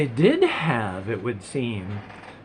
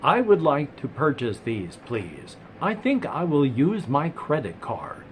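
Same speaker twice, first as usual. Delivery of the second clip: AI voice. Retold or imitated. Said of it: "have their A I voice go".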